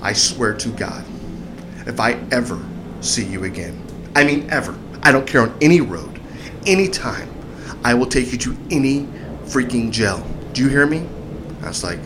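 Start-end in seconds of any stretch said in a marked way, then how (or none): 0.0-10.2 retold stern warning. Officer warning the driver he'll jail him, retold stern warning. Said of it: "this is the way he says it". 10.5-11.1 restrained imitation of an officer's demand; stern check, retold. Officer checking the driver got the warning, restrained stern demand. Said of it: "this is the way he says it".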